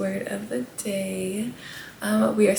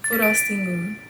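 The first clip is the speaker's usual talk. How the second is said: FUROSTINGU quicker, run together as one word; faster demonstration. Shown as a demonstration. Host repeating the Japanese word for frosting, furostingu said faster. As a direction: say furostingu faster without breaks. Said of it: "Let's say it faster".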